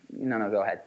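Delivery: low-pitched, meek yielding; giving way without conviction. Shown as a demonstration. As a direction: back down and hand over the floor. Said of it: "without conviction".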